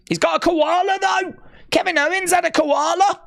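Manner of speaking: high, thrilled exclamation; can't believe it, delighted; squealing with delight; excited. Real, not acted. Excited about koala again.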